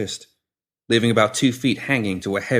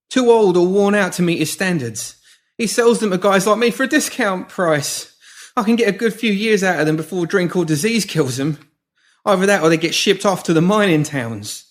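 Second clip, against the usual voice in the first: much higher, louder frantic begging; panicked pleading; 10 semitones higher, 4 dB louder than usual. Acted. Pinky pleading with the woman holding shears, panicked. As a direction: beg for your life, backing away.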